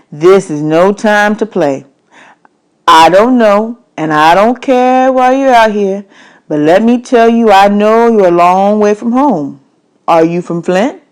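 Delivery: lightly voiced stern older man, slow in places; a hint of a gruff stranger lecturing; stranger's voice.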